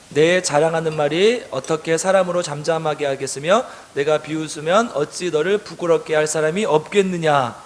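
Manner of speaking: measured congregational Bible reading; scripture reading. A narrator's reading. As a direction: read it out evenly for a group to follow. Reads scripture aloud with congregation.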